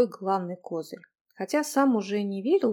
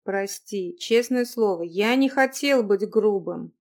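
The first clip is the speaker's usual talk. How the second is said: sincere remorse; 4 dB louder, slower than usual. Acted. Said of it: "голосом, полным искреннего раскаяния".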